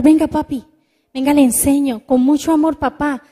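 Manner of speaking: put-on patient kid helping father with tech; kind tone. Shown as a demonstration. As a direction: offer help lovingly to dad. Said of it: "Qué diferente el tono".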